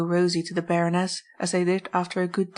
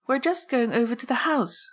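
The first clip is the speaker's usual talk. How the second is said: higher-pitched, cordial hostess; 6 semitones higher than usual. A narrator's reading. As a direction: speak cordially, lifting the pitch. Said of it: "she said cordially".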